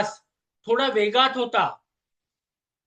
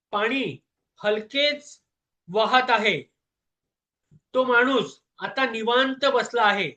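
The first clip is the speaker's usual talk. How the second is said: measured storyteller with long pauses between phrases; calm bedtime narration. Acted. Narrator easing a listener to sleep with a story, calm and measured. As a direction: tell it unhurriedly, phrase by phrase.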